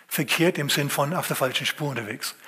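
usual speaking voice

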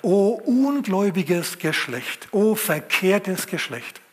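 solemn rebuke. Acted. Jesus rebukes the disciples.

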